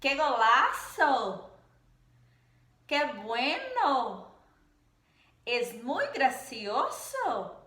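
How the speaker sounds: slow, emphatic exclamations; teacher demoing lively Spanish exclamations; exclamatory intonation. Shown as a demonstration. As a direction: put emotion into each exclamation, slowly. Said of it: "nós entonamos da seguinte maneira".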